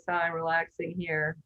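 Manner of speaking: soft unvoiced whisper. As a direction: breathe it like a spa ad. Relaxing beach pitch.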